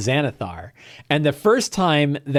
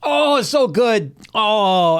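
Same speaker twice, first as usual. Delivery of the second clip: high and slow, relishing the berry; a greedy bunny moaning with delight; little rabbit eating the healing berry; savouring rabbit voice; 7 semitones higher, 3 dB louder, slower than usual. Retold or imitated. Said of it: "And Thumper's like".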